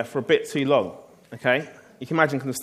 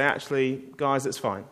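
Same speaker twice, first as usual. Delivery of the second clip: forgiving; 3 semitones lower, 5 dB quieter than usual. Pretend. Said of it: "Steve has to be the one to say".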